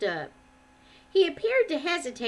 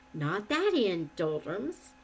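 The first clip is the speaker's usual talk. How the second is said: cheerful; 3 semitones lower, 3 dB quieter, slower than usual. Acted. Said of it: "said the shepherd cheerily".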